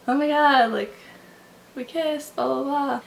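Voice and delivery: mock-giddy rush; giddy excitement. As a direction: gush about the kiss. Retells own thrill after kiss.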